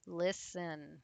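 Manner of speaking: listen with the weight on lis-; listen, first syllable picked out for learners; stress on first syllable. Shown as a demonstration. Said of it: "that's the stress part".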